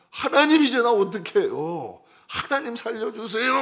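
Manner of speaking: high, loud panicked begging; desperate cry. Retold or imitated. Elijah before the gathered people, panicked loud cry for help.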